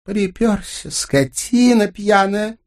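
put-on high furious snarl at drunk husband; growling wife. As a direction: growl it out, disgusted. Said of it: "прорычала моя жена".

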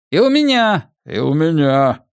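высокий выкрик из толпы; подхвати жалобу высоким голосом; возбуждённая жалоба. A narrator's reading. Жильцы наперебой жалуются на кражи. (возмущённо, наперебой)

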